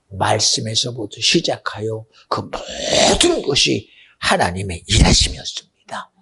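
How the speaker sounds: usual speaking voice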